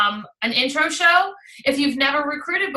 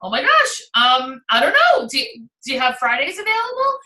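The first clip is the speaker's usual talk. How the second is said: excited hostess; 4 dB louder than usual. Retold or imitated. Hostess answering the consultant's call, excited and keen. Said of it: "mirror that same enthusiasm back".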